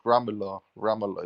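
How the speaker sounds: put-on Ramallah in an English accent, flat a as in cat; lightly imitated English accent on Ramallah. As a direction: mimic an Englishman saying Ramallah, RAM-a-la. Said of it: "like you know, like an English accent".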